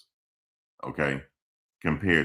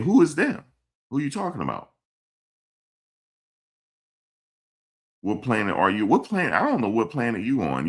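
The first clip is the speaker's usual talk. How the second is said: indignant outburst; 7 semitones higher than usual. Real, not acted. Scolding a chat commenter.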